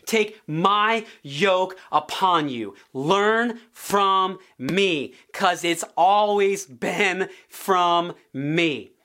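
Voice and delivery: very slow, drawn-out invitation; slow solemn quote. Acted. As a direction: draw each word out gently. Quoting Jesus, very slow.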